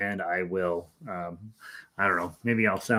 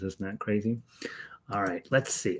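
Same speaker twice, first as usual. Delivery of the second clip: a quick under-the-breath aside while busy; whispered aside; 8 dB quieter than usual. Real, not acted. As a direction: whisper it to yourself. Aside while setting up stream.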